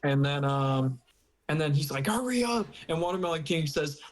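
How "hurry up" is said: high, impatient read-out; playfully acted nagging; mock urgency. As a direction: pitch it up as a pushy order. Acting out an urgent demand.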